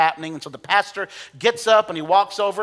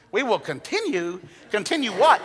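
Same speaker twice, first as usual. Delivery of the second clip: disbelief; 4 semitones higher than usual. Retold or imitated. Preacher replaying his disbelief at the pastor's order, incredulous. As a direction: ask it like you can't believe it.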